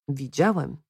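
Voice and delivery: soft, hesitant admission; understated falter, voice dropping. A narrator's reading. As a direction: answer low-key, unsure of yourself. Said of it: "zająknął się Joachim".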